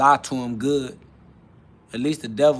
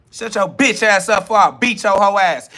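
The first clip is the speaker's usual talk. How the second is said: acted angry shout; 4 semitones higher, 4 dB louder than usual. Acted angry reply in quarrel.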